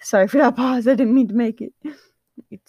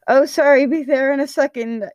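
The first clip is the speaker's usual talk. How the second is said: louder, higher hurried call; yelled back; 6 semitones higher, 5 dB louder than usual. A narrator's reading. Patton answers the coach, yelling back. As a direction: shout an apology back across the field. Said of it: "he yelled back".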